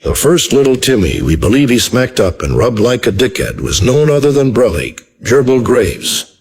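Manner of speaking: deadpan newscaster read; news anchor. Acted.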